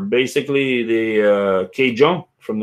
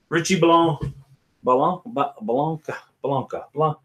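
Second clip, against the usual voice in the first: higher, hammed-up French accent on a name; dumb French accent; 4 semitones higher than usual. Host guessing at a viewer's last name, in a dumb French accent. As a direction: try the surname in a silly French accent. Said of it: "do a dumb French accent".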